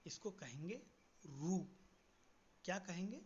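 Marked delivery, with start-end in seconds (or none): 1.2-1.6 रू said as "ru" with a clear u, not "ri"; Odia pronunciation. Shown as a demonstration. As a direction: say रू the Odia way, rounding to "ru". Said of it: "इसको री नहीं कहेंगे, इसको कहेंगे".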